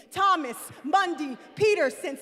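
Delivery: rally the room on the name; rousing call. Shown as a demonstration. Poet leading the crowd in chanting the name, rousing call. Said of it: "say it with me one more time".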